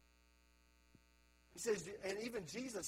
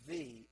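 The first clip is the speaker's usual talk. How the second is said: "the," leaned on a touch louder; emphasis on the; 2 semitones lower, 5 dB louder than usual. Shown as a demonstration. Pastor stressing "the," in "I am the" to the congregation. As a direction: lean on "the," as the one word that matters. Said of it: "emphasis on the word "the".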